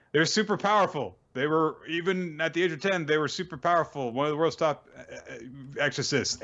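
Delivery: mock gushing. Retelling Reno praising a top exorcist, in high mock awe. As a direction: imitate a girl gushing about her idol.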